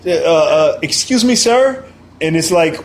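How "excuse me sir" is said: high, clipped polite challenge; a guard stopping a stranger, icy politeness; stern security lady. Retold or imitated. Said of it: "they're just like".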